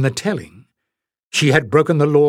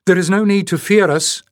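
hasty exclaim; 6 semitones higher, 3 dB louder than usual. A narrator's reading. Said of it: "Leif exclaimed hastily".

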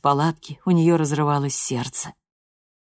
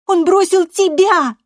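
much higher and louder, near shouting; furious threat; 9 dB louder, slower than usual. A narrator's reading. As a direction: threaten her mother at full pitch. Loredo lashes back at mother.

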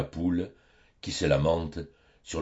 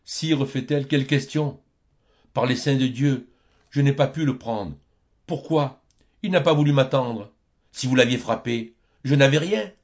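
put-on a higher, flustered old woman's voice; a hint of a fussing old peasant woman; lightly voiced old peasant woman; 7 semitones higher, 5 dB louder than usual. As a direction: play her as flustered and defensive. Old woman answers Costan's questions.

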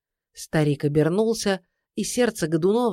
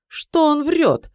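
high, slow indignant cry; exclaiming; 9 semitones higher, 4 dB louder, slower than usual. A narrator's reading. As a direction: cry out in disbelief. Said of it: "воскликнул Годунов".

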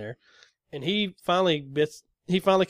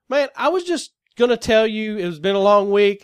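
louder, higher and fed up; exasperated raised voice; 6 semitones higher, 7 dB louder than usual. Retold or imitated. Answering the driver's accusation, exasperated raised voice. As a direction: push back in disbelief. Retold heated reply.

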